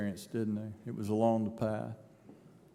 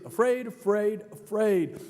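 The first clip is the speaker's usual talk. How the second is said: higher, each afraid hammered; repeated afraid, louder each time; stress on afraid; 8 semitones higher, 3 dB louder than usual. Acted. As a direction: drum the word home. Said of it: "repeated for emphasis".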